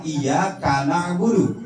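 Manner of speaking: iya kana budu with pause after iya; wrong word break. Shown as a demonstration. Teacher shows the changed meaning, wrong word break. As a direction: join ka onto na in kana budu. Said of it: "Kalau begini tulisannya".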